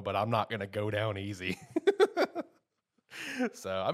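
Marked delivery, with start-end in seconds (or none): 0.0-1.7 gruff line laughed through; laughing. Retold or imitated. Host relishes Denji's last line, laughing through it. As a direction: chuckle while quoting it. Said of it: "I do like how he says that".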